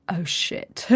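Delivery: breathless whispered swear; whispered curse. Retold or imitated. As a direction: whisper it in dismay. Told she will die.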